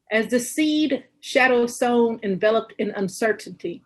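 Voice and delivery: deliberate recital, phrase by phrase; poetry reading. Acted. Poet reads Today I Will Begin Again from a book, deliberate recital. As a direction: recite in short, weighted phrases with pauses.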